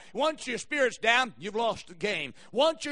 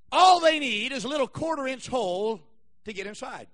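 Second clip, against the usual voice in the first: emphatic, louder sermon build-up; preaching; 3 semitones higher, 5 dB louder than usual. Real, not acted. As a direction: draw out the key words for the congregation. Builds up the snake illustration.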